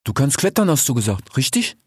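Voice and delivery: lightly voiced sly desert fox talking to his friend; a hint of a streetwise fox, casual and teasing; fox character voice. Desert fox speaks to the sick grey fox, lightly voiced.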